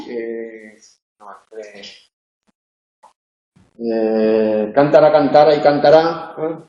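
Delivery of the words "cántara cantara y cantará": cántara, cantara, cantará, cada una acentuada en una sílaba distinta; acentúa CÁN en cántara, TA en cantara y RÁ en cantará; contraste de acento. Shown as a demonstration. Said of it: "para poder hacer la diferencia". (cántara, cantara y cantará con el acento avanzando de sílaba en sílaba)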